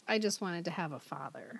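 hushed, sorrowful whisper; soft, low, voiceless retelling; whispered quote. Retold or imitated. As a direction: whisper it like a sad confession. Quotes the sad father's line.

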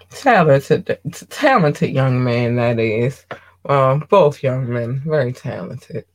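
lightly voiced old auntie; a hint of a doting auntie. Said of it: "Talking like a somebody auntie, old auntie".

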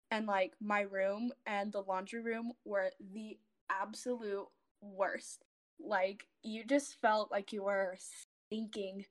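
shaky, unsteady voice from not eating; a slight tremble in the voice. Real, not acted. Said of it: "I sound, like, really shaky".

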